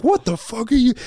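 very high-pitched mock outrage; imitating worked-up opponent. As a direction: squawk it in exaggerated indignation. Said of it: "getting all worked up".

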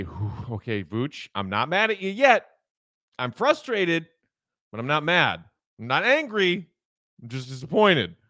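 a hint of a let-down parent talking to Vooch; speaking to Vooch like a disappointed parent; mock disappointed parent. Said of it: "That's where I say".

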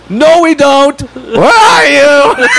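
high mock yell, last words stretched; drawn-out, hammed-up holler; retold shouting. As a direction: imitate hollering out to someone unseen. Acted shouting match across apartments.

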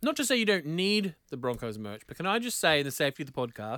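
talking while chewing pizza; words round a bite of food; mouth full. Real, not acted. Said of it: "sorry, I'm just eating some pizza".

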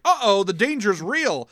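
high, slow exaggerated uh-oh; mock alarm. Holodeck breaks after spilled coffee, mock alarm. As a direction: draw it out in hammed-up dread.

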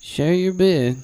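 a hint of a Chicago accent on "Share your bed"; just lightly flatten it Chicago style. Shown as a demonstration. Asked by a cohost, a light Chicago accent. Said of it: "in a Chicago accent".

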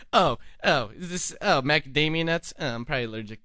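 snooty mock. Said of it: "this fucking attitude like".

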